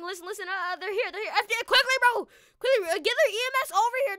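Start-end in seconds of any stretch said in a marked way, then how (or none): 1.4-4.2 raised, higher, hurried voice; role-played emergency shout; urgent calling out. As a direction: summon help in a rush. Calling rescuers to the victims.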